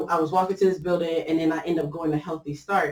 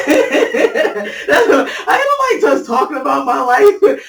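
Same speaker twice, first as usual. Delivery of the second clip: words squeezed out through laughter; laughing while joking; 7 semitones higher, 7 dB louder, slower than usual. Real, not acted. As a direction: joke it away while still laughing. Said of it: "I'm kidding".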